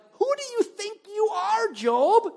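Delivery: high, loud booming taunt; God taunting Job. Retold or imitated. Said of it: "almost like taunting him".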